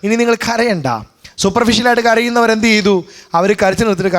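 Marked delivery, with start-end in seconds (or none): 0.0-0.9 Lord proclaiming his presence. Retold or imitated. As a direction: announce it boldly to the room. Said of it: "കർത്താവ് പറയുന്നു".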